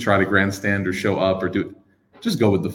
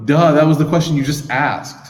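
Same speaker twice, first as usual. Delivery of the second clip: sarcastic duh; 5 semitones higher, 5 dB louder than usual. Pretend. Mock sarcastic answer.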